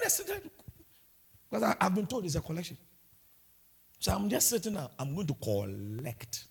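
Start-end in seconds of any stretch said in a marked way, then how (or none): 5.0-6.5 put-on slow, low Nigerian man's accent saying collect. Pastor mocking himself at interview, in a Nigerian accent. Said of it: "In a Nigerian man's accent".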